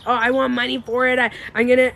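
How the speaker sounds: angry energy. Acted. Vlogger mocking the urge to sue for money, mild angry bluster. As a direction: act out someone demanding money, a touch heated. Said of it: "angry energy".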